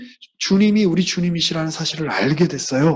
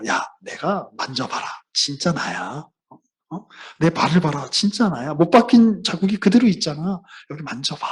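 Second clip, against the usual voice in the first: voicing Jesus. Jesus telling the frightened disciples to touch him, gentle. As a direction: gently invite them to touch the wounds. Jesus voiced showing his wounds.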